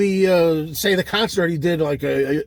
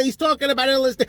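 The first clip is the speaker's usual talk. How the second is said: fast, sneering impression of a know-it-all fan; mocking fan voice; 2 semitones higher, faster than usual. Mocking a conspiracy fan, quick sneering voice. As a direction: scoff it out like a gullible fan. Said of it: "Oh, yeah".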